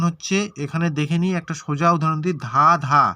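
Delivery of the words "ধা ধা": ধা ধা as two separate, loud beats; syllable by syllable. Shown as a demonstration. Teacher showing how many syllables a word has, syllable by syllable. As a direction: give each ধা in ধা ধা its own firm beat. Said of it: "ধাঁধাটাকে আমরা কীভাবে উচ্চারণ করব".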